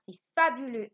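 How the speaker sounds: loud, high exclaimed line; exclamation. Shown as a demonstration. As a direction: burst out in delight. (exclamation forte et aiguë)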